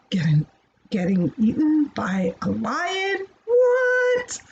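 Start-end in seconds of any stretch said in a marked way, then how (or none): 3.4-4.4 mock shock. Teacher faking shock at the story's twist. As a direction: act stunned for the kids. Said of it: "Oh my goodness".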